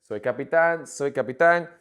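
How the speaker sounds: "Soy capitán" twice, punching the final tán; accented final syllable. Shown as a demonstration. Teacher drilling pronunciation with the accent, "capitán" stressed on tán. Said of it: "practice the pronunciation with the accent".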